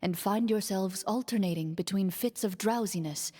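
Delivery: steady, even game master narration; scene narration. A narrator's reading. Game master describing the dark prison to players, measured narration. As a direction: paint the dungeon for the players, evenly.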